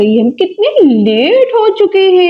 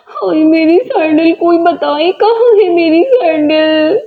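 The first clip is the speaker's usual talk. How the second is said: रोती पुकार; 2 semitones higher than usual. Acted. सैंडल खोने पर विलाप.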